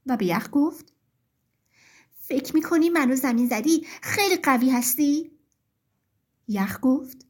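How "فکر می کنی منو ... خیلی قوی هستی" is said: understated indignant challenge; lightly acted annoyed question; mildly angry. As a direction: confront them with a touch of anger. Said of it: "خیلی عصبانی شد".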